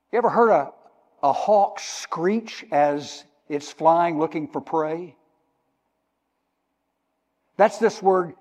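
normal talking voice

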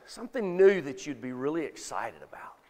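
whisper. Real, not acted. Aside, unvoiced.

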